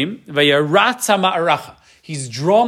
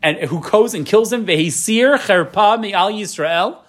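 David's eager question; 6 semitones higher than usual. Retold or imitated. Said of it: "So he says".

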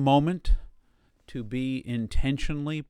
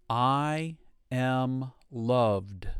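slow affirmation; much slower than usual. Shown as a demonstration. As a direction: stretch it out gently. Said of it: "And again".

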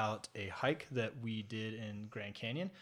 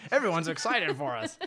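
laughing through the words; giggling while talking; 5 semitones higher, 5 dB louder than usual. Real, not acted. Laughing while correcting himself.

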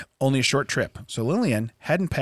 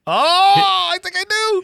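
high, loud, put-on leprechaun voice; 7 dB louder, much slower than usual. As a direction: squeak it out like a leprechaun. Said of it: "Now I sound like a leprechaun".

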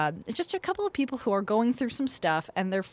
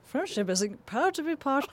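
put-on higher, playful British accent; 5 semitones higher than usual. Host replays the intro for her cohost, British accent. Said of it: "I like your British accent".

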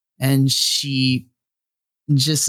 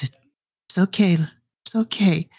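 lightly acted higher-pitched comforting voice; soothing mother; 6 semitones higher than usual. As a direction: gently reassure a crying child, pitched up. Mother soothes her crying child.

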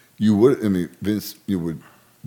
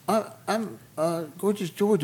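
very high, soft imitation of a woman; hesitant, slow, high-pitched mock introduction; Gorgeous George; 13 semitones higher, 4 dB quieter than usual. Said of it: "Who is this girl".

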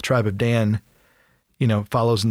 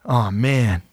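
nervous backpedal. Retold or imitated. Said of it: "starts backpedaling".

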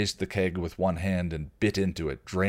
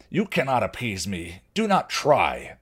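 slow, louder stern troll warning; troll yell; 3 semitones higher, 4 dB louder than usual. Acted. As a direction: refuse him flatly and loudly. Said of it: "the troll yelled".

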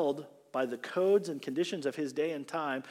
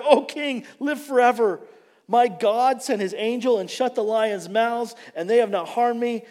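calling out; 8 semitones higher, 8 dB louder than usual. Retold or imitated. Daniel answers from den.

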